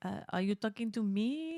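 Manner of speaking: put-on French accent on request; lightly hammed French accent. Shown as a demonstration. Co-host asked to show off, French accent. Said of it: "she does an amazing French accent".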